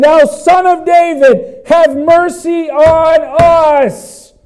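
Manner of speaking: high, loud, long-drawn plea; crying out. Acted. Blind men calling to Jesus over the crowd, crying out. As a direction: cry it slowly over the heads of a crowd. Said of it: "they're crying out over the crowd".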